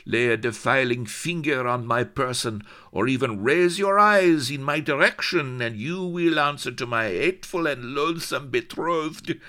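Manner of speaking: high, loud proud declaration; high, loud accented noblewoman boasting her titles; haughty Spanish lady. Acted. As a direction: flaunt every title with fire. Haughty lady warns the captain.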